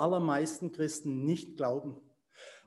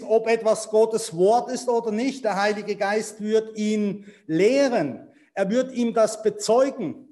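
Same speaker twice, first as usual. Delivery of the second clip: louder, emphatic preacher delivery; raised, insistent pulpit voice; forceful preaching; 3 semitones higher, 4 dB louder than usual. Real, not acted. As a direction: drive the point home to the congregation.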